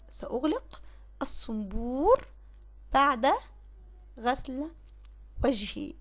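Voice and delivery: slow dictation, each word set apart by pauses. Shown as a demonstration. Teacher dictating the corrected sentence to pupils, slow and word by word. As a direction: spell the sentence out slowly for the pupils. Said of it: "اقول ايه؟".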